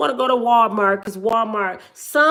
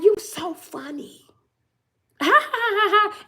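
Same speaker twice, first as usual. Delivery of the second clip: imitated laughing; 10 semitones higher than usual. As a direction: act out people laughing at a joke. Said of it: "start laughing".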